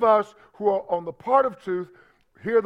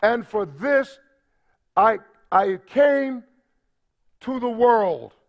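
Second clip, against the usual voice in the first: louder, higher, slow declaration; proclaiming; 4 semitones higher, 3 dB louder, slower than usual. Acted. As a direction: build into a ringing proclamation. Preacher proclaiming Jesus' words.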